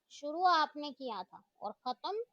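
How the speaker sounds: student defying the teacher in a sharp voice. Acted. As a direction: throw the challenge back hard. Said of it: "अपनी तीखी आवाज में कहा".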